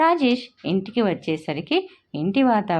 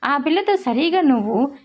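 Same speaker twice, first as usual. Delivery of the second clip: irritated; 6 semitones higher than usual. A narrator's reading. Husband fed up with the quarreling at home, irritated outburst. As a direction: snap at the whole household in frustration. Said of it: "చిరాగ్గా అన్నాడు".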